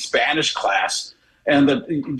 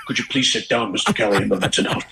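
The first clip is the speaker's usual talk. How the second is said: teacher; 5 semitones lower than usual. Retold or imitated. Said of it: "he'd be like".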